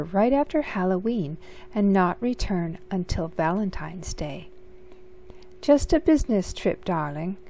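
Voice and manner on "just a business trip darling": Auntie Claus brushing off. Acted. Auntie Claus deflects question.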